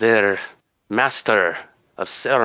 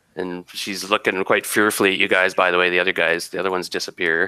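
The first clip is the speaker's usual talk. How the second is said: ordinary talk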